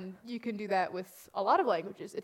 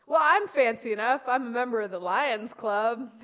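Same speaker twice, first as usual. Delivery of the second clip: quoting the lion; 6 dB louder than usual. Retold or imitated. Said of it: "bad puns in The Wiz".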